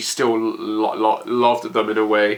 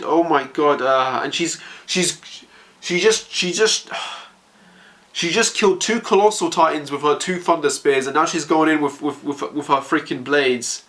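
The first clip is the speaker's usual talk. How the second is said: higher, breathless with emotion; overwhelmed awe; 3 semitones higher than usual. Real, not acted. Fan overwhelmed as Hanji fights, higher in awe. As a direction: voice lifting in awe.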